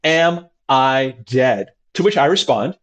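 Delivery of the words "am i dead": calm casual question. Retold or imitated. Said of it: "a voice of saying, "I would like onion rings".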